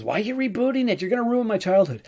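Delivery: mock high-pitched whine of complaint; upset fans. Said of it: "lots of people aren't excited because".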